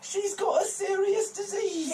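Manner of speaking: high, slow whining; whiny liar voice. Acted. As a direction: plead a fake illness. NPC lying about sick mother.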